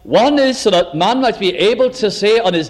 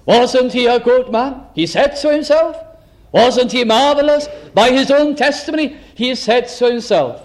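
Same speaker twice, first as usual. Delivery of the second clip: higher, sing-song mourner's praise; mock admiring relative; 4 semitones higher than usual. Relatives praising the dying man, mock admiring. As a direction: gush over the dead man's goodness. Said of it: "And you might say".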